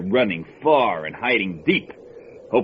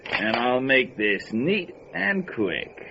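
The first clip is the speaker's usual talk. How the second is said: menacing slow threat; 2 semitones higher, slower than usual. Acted. Gunman about to shoot them.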